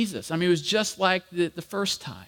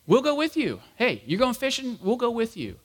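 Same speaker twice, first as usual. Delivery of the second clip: higher, eager voice joining in; eager disciples; 5 semitones higher than usual. Retold or imitated. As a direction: chime in keenly, pitch up.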